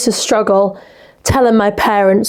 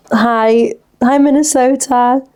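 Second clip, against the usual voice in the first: British accent; 2 semitones higher, slower than usual. Shown as a demonstration. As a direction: greet Minnesota in a British accent. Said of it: "good in a British accent".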